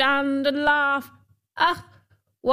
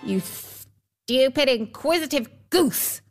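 irate dwarf; 4 semitones higher than usual. Acted. Dwarf insults Rose Red for asking, acted irritation. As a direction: spit out a mock insult.

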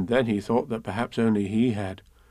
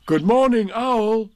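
louder, higher call of good morning; hearty greeting; 11 semitones higher, 6 dB louder, slower than usual. Acted. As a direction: call out a cheery hello. Pooh greets Owl loudly.

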